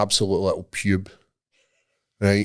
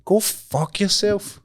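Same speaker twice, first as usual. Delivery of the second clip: scornful dismissal; 11 semitones higher, slower than usual. Retold or imitated. Ranting at security guard.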